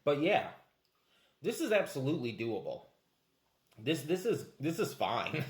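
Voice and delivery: talking around hard candy; candy rolling in mouth; sucking hard candy. Real, not acted. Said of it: "You're still gonna have to suck it down".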